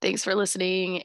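hoarse voice from a cold; sick voice. Real, not acted. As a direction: speak through a sore throat. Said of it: "sorry again for the sick voice".

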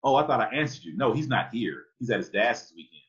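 friend's mother. Acted. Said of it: "And she said".

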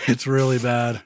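rough voice from a fever; hoarse, speaking through illness; hoarse sick voice. Real, not acted. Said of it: "My voice sounds awful".

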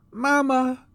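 put-on high, loud child's wail; small child calling in distress; crying little child. A narrator's reading. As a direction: cry out for mother in a little voice. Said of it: "cried a little voice".

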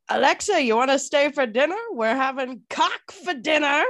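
bright hammed-up invitation, a little fast; imitating her dad. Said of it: "her dad goes".

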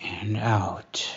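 breathy whisper guiding the exhale; hushed breathing coach; whispered cue. Acted. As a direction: whisper it as they let the breath go. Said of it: "Breathe in".

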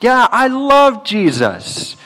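airy high-pitched "Yeah, I love Jesus", slowed down; mock a breezy Christmas-time churchgoer; lightly imitated careless profession of faith; casual Southern believer. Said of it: "so many would say".

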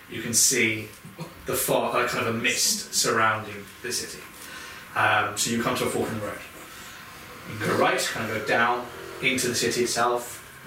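steady scene-setting storyteller voice; game master narration. Acted. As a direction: paint the road to the city.

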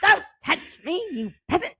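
mock imperious queen; haughty heroine. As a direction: dismiss him like a noble to a peasant. Acting heroine's haughty line.

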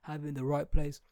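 mimicking the defenders. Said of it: "Everyone always says".

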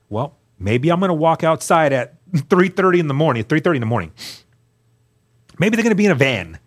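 lifted, quick hopeful musing; picture the welcome party, eager and fast; retelling an eager hope, lightly voiced; hopeful daydream.

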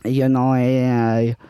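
light put-on Spanish accent. Improv scene as Juan.

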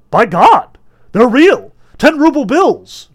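loud, high amazed exclamations; joyful cries. A narrator's reading. Gallery crowd finding the money is real, joyful cries. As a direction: shout it out overjoyed. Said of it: "Joyful cries came from the gallery".

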